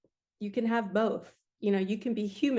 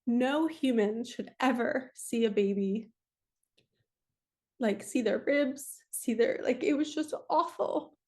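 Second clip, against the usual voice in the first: fighting back tears; 3 semitones higher than usual. Real, not acted. Mother recalling her baby's last days, close to tears. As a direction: voice rising and straining near tears, slowed. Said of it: "oh, I don't wanna cry".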